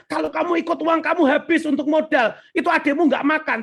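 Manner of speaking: retelling a mother's urgent warning; worried mother's warning. Retold or imitated. Mother warns her son about spending money, insistent. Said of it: "Meskipun mama bilang".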